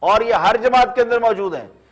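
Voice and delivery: measured, pointed TV commentary with falling phrase ends; pointed editorial read, phrase by phrase; scripted editorial monologue. Acted.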